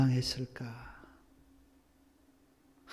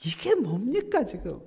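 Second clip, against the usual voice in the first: loud, higher, whining grumble; complaining to God; 9 semitones higher, 9 dB louder than usual. Retold or imitated. Mixed crowd complains to God about the road, loud whiny grumbling. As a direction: voice the crowd's bitter protest. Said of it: "악한 말로 하나님을 원망합니다".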